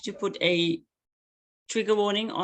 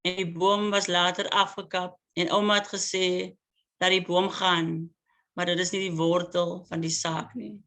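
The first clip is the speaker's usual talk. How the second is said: poem reading. Acted. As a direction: savour each line, pause between images. Poet reads Afrikaans poem.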